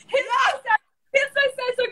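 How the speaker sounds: very high, squeaked imitation; hammed-up chorus of helpers; eager friends. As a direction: pipe up repeatedly in a mock-eager squeal. Mimics friends offering sad songs.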